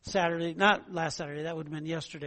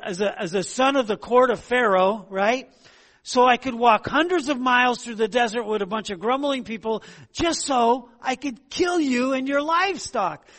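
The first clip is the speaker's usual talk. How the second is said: high, loud mock-sincere smart aleck; sarcastic Moses; 5 semitones higher, 4 dB louder than usual. Pastor voicing Moses mocking the grumbling people, sarcastic. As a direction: gush it out with heavy sarcasm, much higher and louder. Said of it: "I wish Moses would have said".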